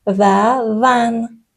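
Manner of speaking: ون very slowly, final t silent; French vingt. Shown as a demonstration. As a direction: drag out ون with no t at the end. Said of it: "تی آخرش تلفظ نمیشه". (ون کشیده بدون ت)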